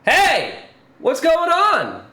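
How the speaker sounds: high, loud, slow greeting; natural voice actor line. Retold or imitated. Streamer mocking stiff voice acting, hammed-up greeting. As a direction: greet like a real person in a room. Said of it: "Why can't we just be like".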